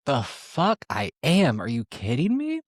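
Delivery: slow, disbelieving retort; incredulous scoff. Retold or imitated. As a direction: stretch it out like the idea is absurd. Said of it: "And I was like".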